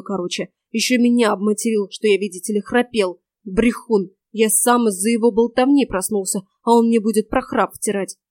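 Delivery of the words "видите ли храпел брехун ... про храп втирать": usual speaking voice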